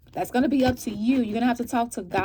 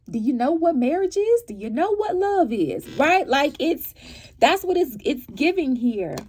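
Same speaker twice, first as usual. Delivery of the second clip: indignant disbelief; 5 semitones higher, 4 dB louder than usual. Real, not acted. Indignant rant about love.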